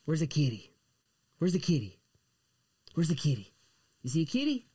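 high sing-song pet talk. Real, not acted. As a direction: coo at the dog playfully. Talking to pet baby talk.

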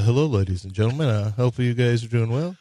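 lightly voiced airplane captain; a hint of a pilot's cabin announcement; airline captain voice. Radio host dodging a Yao Ming imitation, mock captain's voice. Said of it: "go right to my captain's voice".

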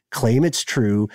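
ordinary delivery

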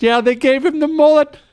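lampooning a bad Southern accent, laughing through it; mock Southern accent. Host mocking Nicolas Cage's Con Air accent, high mock Southern. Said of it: "that horrible Southern accent he tried to pull off".

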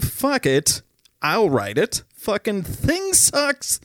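angry rant. Retold or imitated. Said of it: "the Bill O'Reilly Freakout".

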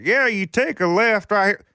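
slow, casual celebrity voice; lightly voiced helpful star; imitating a celebrity. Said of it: "he was like".

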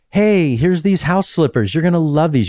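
mock cheerful pitch. Wife pitching house slippers to her husband, mock chipper. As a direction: sell the slippers a little too eagerly.

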